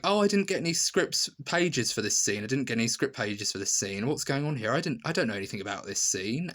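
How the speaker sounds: lightly acted alarm, quickening as it goes; mock flustered protest. Actress to director about missing script pages, mildly flustered. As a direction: imitate a rattled actress, rushing the words. Acting out actress panicking at unscripted scene.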